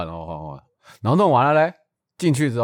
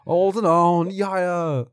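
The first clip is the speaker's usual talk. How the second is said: a hint of an impressed old uncle; mild old-man gush; lightly voiced old man; 7 semitones higher, slower than usual. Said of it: "口气就是这样子".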